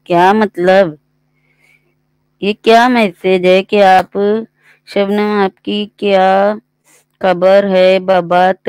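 loud, baffled questioning of the comment; baffled outburst. Real, not acted. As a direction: call out the confusion loudly. Baffled by the viewer's message.

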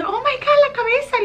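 high, loud startled cry; aunt suddenly sees the baby's head; shocked gasp. Retold or imitated.

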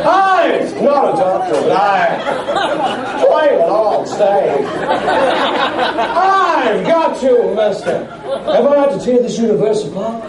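William Shatner impression. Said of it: "Captain Kirk William Shatner there".

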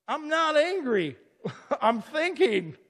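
high, loud and slow, laughing through the denial; a laughing, high-pitched mock protest to the store clerk. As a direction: protest you're fine while laughing it off.

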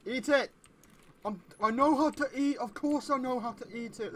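hammed-up outrage for the joke; mock shout. Player quoting a meme at the game, mock indignant yell.

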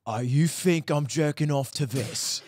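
slow, drawn-out mock accent; lightly hammed-up TV tough-guy impression; The Boys character. Doing the guy from The Boys for friends, mock accent. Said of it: "it moved to the main character from The Boys".

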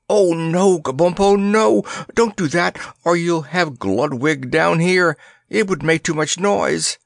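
alarmed plea. A narrator's reading. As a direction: stop him before the guard hears. Princess begs him stop.

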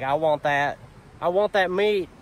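voicing the dog. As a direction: beg for the meat like the dog. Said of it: "She's like".

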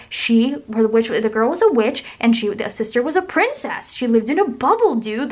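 mock-heated movie argument; retold outrage, emphatic with pitch jumps; imitated angry arguing. Guy arguing over The Wizard of Oz, mock anger. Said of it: "he got so angry".

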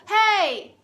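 loud, high, drawn-out hey; calling out. Retold or imitated. Man calls to woman across the park, calling out. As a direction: imitate someone hailing from a distance. Acting out the man hailing her.

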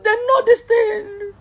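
slow, tearful insistence; real crying plea. Real, not acted. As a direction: drag each word out through tears.

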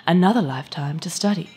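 seductive commercial pitch; alluring advertisement voice; silken ad voice. Acted. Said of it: "The ad continued".

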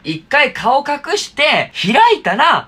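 slow demo. Shown as a demonstration. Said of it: "やってみるね".

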